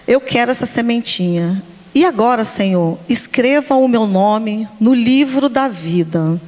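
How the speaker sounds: gentle retold classroom prayer. Leads the children's prayer.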